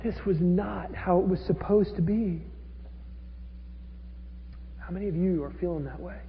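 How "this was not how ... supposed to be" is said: frustrated despair. Retold or imitated. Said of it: "Abner is sitting there going".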